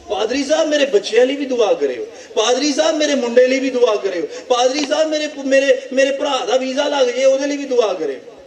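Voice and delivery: lightly mimicked high-pitched petitioner; pleading congregant. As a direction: pester the pastor with a singsong request. Mimicking congregants begging the pastor for prayers.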